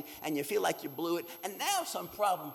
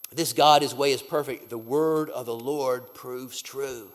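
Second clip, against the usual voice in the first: loud proclaiming; 3 semitones lower, 11 dB louder than usual. Acted. Preacher proclaims the refrain.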